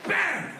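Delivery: high, exclaimed crash noise; imitated impact bang. Comic imitating the plane hitting deck, high bang. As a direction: make the sudden stop a high bang. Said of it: "You go".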